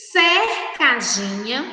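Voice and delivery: "cercadinha" deliberately, cer set apart; "cercadinha" as cer, then cadinha; reading out by syllables. Shown as a demonstration. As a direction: sound out "cercadinha" for children. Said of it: "vamos ler novamente as três palavras".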